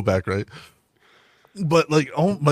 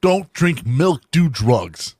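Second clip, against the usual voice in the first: louder, slow heroic proclamation; mock superhero; 4 semitones higher, 5 dB louder, much slower than usual. Joining the superhero parody, mock heroic proclamation. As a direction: boom out a hero's bad advice. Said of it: "continuing superhero parody".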